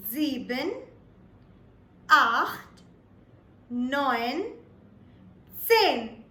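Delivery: each number spoken slowly and clearly, with a pause after it; teacher modelling German numbers one by one; German counting. Shown as a demonstration. Teacher demonstrates German counting to viewers, slow and clear. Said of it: "the counting in German goes something like this".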